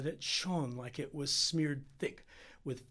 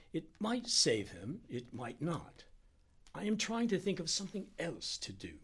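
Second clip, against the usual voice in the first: lightly voiced doctor, measured then higher; uncertain Indian doctor; 5 semitones higher than usual. Doctor answering about the serum, lightly voiced uncertainty. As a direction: weigh the odds aloud as a troubled doctor.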